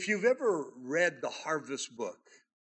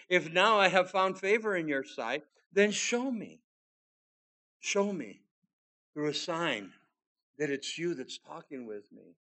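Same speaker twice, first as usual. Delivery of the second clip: scripture reading. Acted. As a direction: stress show me as you read. Preacher reads Gideon again.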